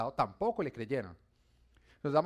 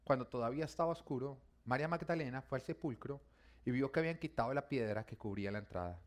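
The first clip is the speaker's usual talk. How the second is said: measured Bible narration; narrating a Gospel story; scripture reading. Acted. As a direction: read the passage aloud to a congregation. Reads the Bible passage aloud.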